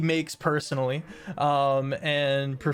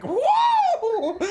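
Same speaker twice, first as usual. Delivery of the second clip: high, loud whooping whoa through laughter; mock stoned whoa; 6 dB louder than usual. Party high on a bench, shouting a laughing whoa. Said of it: "just chilling on a bench being like".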